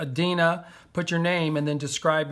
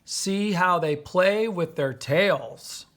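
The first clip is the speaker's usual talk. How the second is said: slow dictation; 2 semitones higher, slower than usual. Shown as a demonstration. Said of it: "do seven syllables".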